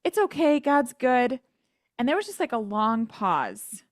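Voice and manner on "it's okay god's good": high, chipper brush-off; imitating a fake-cheerful self, higher; forced cheer. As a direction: paper over the pain brightly. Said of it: "I just remember being like".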